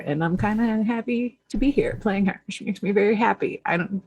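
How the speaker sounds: usual speaking voice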